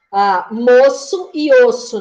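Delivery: slow, deliberate example words. Shown as a demonstration. Teacher giving examples to her students, slowly and deliberately. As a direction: spell out each example word slowly for the class. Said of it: "por exemplo".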